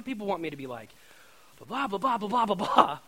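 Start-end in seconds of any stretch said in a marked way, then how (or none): 1.6-3.0 dismissive blah. Retold or imitated. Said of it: "anxious questions rattled off".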